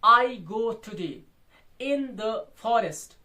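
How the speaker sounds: "I go today in the forest" slowly, word by word; spaced-out dictation of "I go today in the forest"; example in metrical beats. Shown as a demonstration. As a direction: say "I go today in the forest" measured, with a break midway. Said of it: "मैं example दूंगा".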